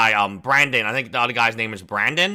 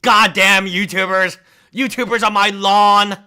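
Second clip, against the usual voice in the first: shouting at trespasser; 6 semitones higher, 5 dB louder than usual. Pretend. Grumpy old man yelling at YouTubers.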